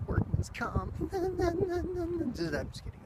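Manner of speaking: laughing, high and drawn out; laughing joke. Real, not acted. Joking to viewers about a workplace injury, laughing.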